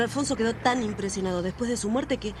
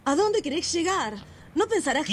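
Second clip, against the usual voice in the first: higher, anxious questioning; alarmed; 6 semitones higher than usual. Acted. Sister pressing her brother, alarmed by his suspicions. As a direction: pull back in growing alarm. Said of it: "Isabel está horrorizada".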